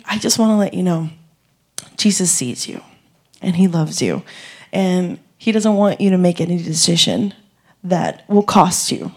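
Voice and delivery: soft, tender retold reassurance; gently reassuring. Comforting a sobbing kid at the car, gently reassuring. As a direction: speak softly, as if to a crying child.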